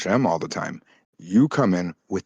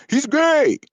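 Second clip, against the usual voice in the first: high, loud cartoon blurt; soundboard button voice; 6 dB louder than usual. A streamer mimicking a soundboard button's shout. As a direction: fire it off like a sound effect. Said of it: "a button that goes".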